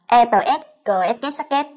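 e, tờ, cờ, sắc said the Vietnamese way, with a falling két; Vietnamese spelling. Shown as a demonstration. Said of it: "cách mà người Việt chúng ta hay đọc là".

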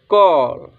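"कॉल" with a long rounded aw; model pronunciation. Shown as a demonstration. Teacher shows how to read it, "कॉल" with long aw. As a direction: sound out "कॉल" as a model word. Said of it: "तो इसको हम क्या पढ़ें?".

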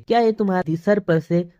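ordinary delivery, nothing marked

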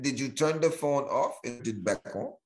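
badly faked Indian tech-support accent; wobbly put-on Indian accent; mock Indian accent. Tech support agent troubleshooting a phone, in a mock Indian accent. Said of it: "Indian accent I did".

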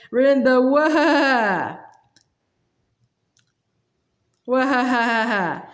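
last word stretched into a wavering whinny; indignant horsey whinny on "what"; horse's neigh. A narrator's reading. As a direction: start in words, then break into a drawn-out neigh. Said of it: "came out in a sort of neigh".

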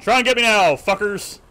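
loud taunting villain; wild unhinged ranting. Pretend. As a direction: shout threats like a madman. Taunting monsters, villain laugh.

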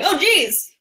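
high-pitched startled yelp of alarm; mock startled. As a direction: act out being spooked by a guard dog. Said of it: "It's scary, and you're like".

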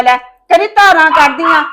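ਧਾਰਾਂ rising in a loud, angry retort; heated retort. Acted. Daughter-in-law throwing the milking jab back, loud.

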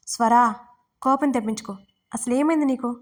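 a mild, read-aloud shout of frustration. Acted. Husband mildly shouting at his wife, demanding what happened. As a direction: raise the voice a little on her name, then press the question. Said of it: "అని అరిచాడు అనిరుద్".

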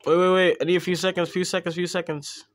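urgent rising excitement; excited. Real, not acted. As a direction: hold on, buzzing with excitement. Excited waiting for subscriber count.

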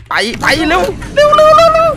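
high, loud frantic urging; panicked hurry. Real, not acted. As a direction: yell at yourself to run. Fleeing the monster in game.

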